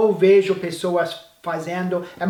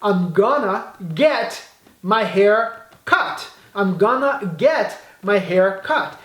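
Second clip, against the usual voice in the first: very slow, every word clear, rising at cut; slow model sentence; slower than usual. Shown as a demonstration. Teacher giving the correct English for learners, very slow. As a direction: lay out the right sentence word by word. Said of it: "Eu vou falar".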